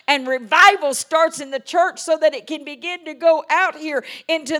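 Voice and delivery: loud, high fervent preaching; full-force preaching. Acted. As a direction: preach it out to the congregation.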